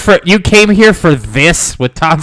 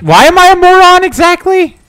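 mock offended; 10 semitones higher, 4 dB louder than usual.

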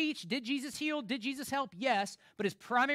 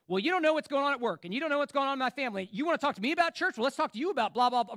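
louder, fast, higher defensive rant; defensive excuses; 3 semitones higher, 5 dB louder, faster than usual. Retold or imitated. Churchgoer brushing off a friend, defensive and fast. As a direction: fire back excuses as if cornered. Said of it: "we've got six excuses".

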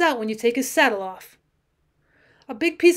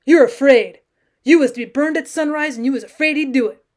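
loud accusation; 6 dB louder than usual. Acted. Bill accuses Sam of fear.

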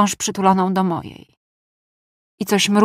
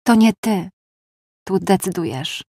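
smile in voice. Acted. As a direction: tease her gently with a smile. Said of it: "Słychać było uśmiech w jego głosie". (z lekkim uśmiechem w głosie)

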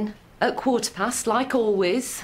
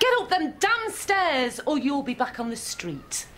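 angry; 3 semitones higher than usual. Acted. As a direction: bark the order up the stairs. Mother orders daughter upstairs.

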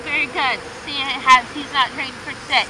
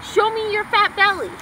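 "Show me your fat belly" sung out high, stress on "fat"; high command to the dog; 7 semitones higher than usual. Pretend. Owner calling her dog to roll over, high and coaxing. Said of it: "He knows".

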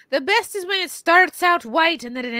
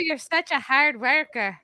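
playful go at an Irish "hard worker"; amateur Irish accent on "hard worker"; attempted Irish accent. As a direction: copy the Irish coach, half-joking. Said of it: "You're not doing it to the front".

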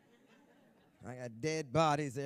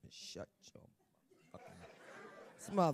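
mock hushed threat; 8 semitones lower, 5 dB quieter, slower than usual. Playful scolding an audience member.

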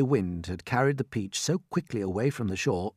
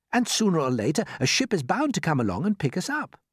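lightly voiced boy, pitched up; calm young James; 9 semitones higher, 4 dB louder than usual. A narrator's reading. James promises the creatures a rescue ship, calm. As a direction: offer hope without fuss. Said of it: "said James calmly".

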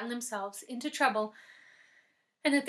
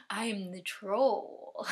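slow troll drawl; 3 semitones lower, much slower than usual. Acted. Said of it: "said the troll".

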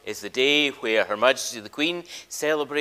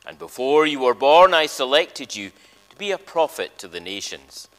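solemn, louder Bible reading from the pulpit; scripture reading; 4 dB louder than usual. Acted. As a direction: read Jeremiah to the congregation with weight. Reads call to worship scripture.

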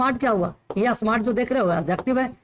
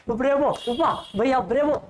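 cheering bravo. Shown as a demonstration. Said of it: "तो क्या कहते हैं".

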